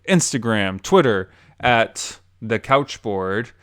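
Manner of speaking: slow, deliberate host outro; measured show-closing announcement; podcast sign-off. Real, not acted.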